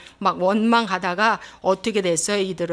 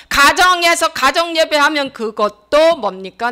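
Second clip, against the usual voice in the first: higher, forceful preacher's exhortation; full-force preaching; 4 semitones higher, 5 dB louder than usual. Real, not acted. Preacher challenging the congregation with questions, impassioned preaching. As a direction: drive each question home to the congregation.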